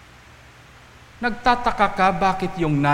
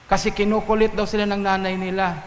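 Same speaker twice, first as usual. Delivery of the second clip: ordinary talk, nothing marked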